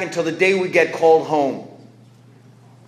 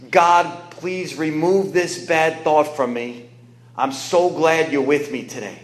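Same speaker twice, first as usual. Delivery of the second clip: slow taught prayer; slower than usual. Retold or imitated. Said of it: "Stevie, I want you to listen to this".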